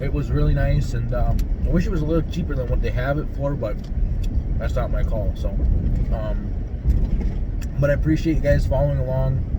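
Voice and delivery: talking with food in mouth; words round a bite of food; mouth full. Real, not acted. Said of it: "sorry I'm eating".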